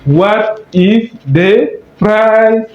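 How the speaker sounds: slow, rising repeat of the model. Shown as a demonstration. Teacher repeats the English phrase slowly. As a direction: say it again slowly for the class. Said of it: "quel est le prix en anglais".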